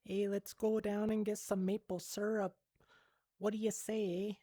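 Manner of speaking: lightly put-on, goofy Canadian accent; playfully hint at a Canadian accent; joking attempt at sounding Canadian. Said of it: "with the Canadian accent".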